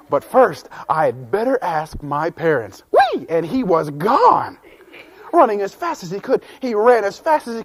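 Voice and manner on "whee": very high delighted whoop; gleeful whee. Acted. Jean-Luc dashing home to ask parents, squealing with joy. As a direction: let out a joyful kid's squeal.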